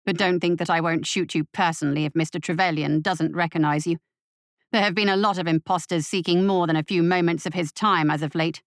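cold menacing butler. Acted. Butler threatens Bryden.

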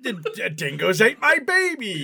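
hammed-up Australian movie quote; playful Australian accent; mock Australian accent. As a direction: laugh into a stammered Aussie film line. Quoting Australian film line in accent.

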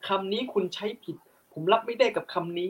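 hammed-up offended debater voice; mock angry complaint. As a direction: play the offended arguer, pitch up.

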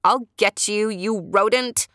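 yelled. A narrator's reading. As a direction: yell up at the fleeing porcupine. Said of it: "she yelled".

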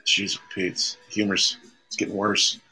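ordinary delivery

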